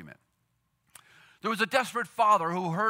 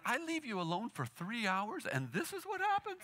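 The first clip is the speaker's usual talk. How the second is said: parental voice; 3 semitones higher, 10 dB quieter than usual. Retold or imitated. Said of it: "Jesus is in this parental voice".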